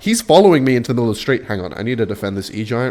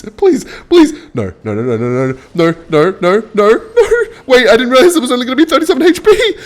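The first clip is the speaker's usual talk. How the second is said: frantic no's climbing to a high loud yell; panicked pleading; 11 semitones higher, 6 dB louder than usual. Real, not acted. Player watching the match slip away, panicked yelling. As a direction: escalate from begging into a high, laughing wail.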